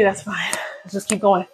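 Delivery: breathy unvoiced whisper. Real, not acted. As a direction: whisper it, barely any voice. Whispered repeat, winded.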